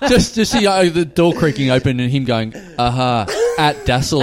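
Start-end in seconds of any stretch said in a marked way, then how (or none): 2.8-4.2 mock Italian-Japanese accent; hammy foreign accent; fake Italian Japanese. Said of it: "The fake Italian Japanese".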